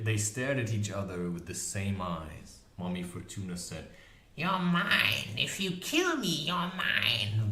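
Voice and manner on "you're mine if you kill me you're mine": high menacing crone; witch voice. A narrator's reading. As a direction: claim it, threatening. Witch threatens harpy.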